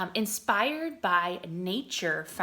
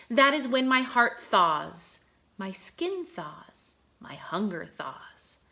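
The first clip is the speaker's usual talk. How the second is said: put-on lilting poem reading for young children; poem read aloud. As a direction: read it like a gentle nature poem. Reads poem to class.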